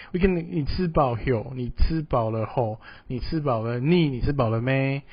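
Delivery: "你吃饱了没" tried in several different accents; four pronunciations. Shown as a demonstration. Teacher quizzes students on four spoken variants. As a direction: cycle through versions of "你吃饱了没", each ending differently. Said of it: "four different ways of speaking".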